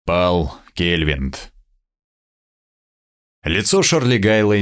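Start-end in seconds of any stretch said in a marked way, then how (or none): 0.0-1.5 very slow, grave and low; sepulchral voice. Acted. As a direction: announce the loss like a death. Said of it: "сказал он гробовым голосом". (гробовым голосом)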